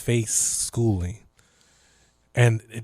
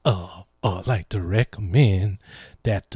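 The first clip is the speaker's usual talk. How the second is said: imitating the governor; 5 semitones lower than usual. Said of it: "He'd be like".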